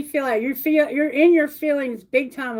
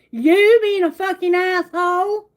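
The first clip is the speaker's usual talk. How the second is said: a higher, louder snapped comeback; mock retort; 6 semitones higher, 5 dB louder than usual. You, fed up with the coworker, mock retort. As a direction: throw it back at them with attitude. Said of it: "you'd be like".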